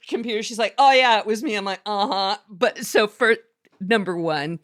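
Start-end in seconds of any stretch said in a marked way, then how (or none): 0.8-1.6 put-on high, loud Valley Girl admission; airy valley girl owning up. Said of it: "I'm using my Valley Girl voice". 1.9-2.4 put-on Valley Girl voice. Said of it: "I'm using my Valley Girl voice".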